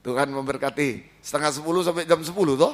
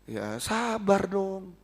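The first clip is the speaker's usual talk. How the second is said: soothing; 4 semitones higher, 4 dB quieter, much slower than usual. Acted. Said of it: "soothing reply".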